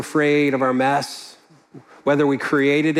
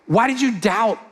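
a tender question, a little higher, with no anger in it; gentle, caring tone; 4 semitones higher than usual. Shown as a demonstration. Jesus asking Peter after catching him, tender. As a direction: ask the way a friend would who had just caught you. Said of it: "the tone of this tells Jesus saying".

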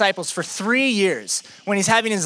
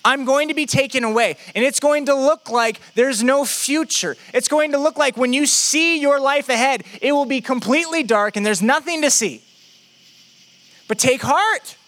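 urgent, higher-pitched assurance; raised, emphatic pitch, assuring the group; Jesus; 6 semitones higher than usual. Acted. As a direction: prepare your followers earnestly for what's coming. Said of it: "Jesus starts to assure them".

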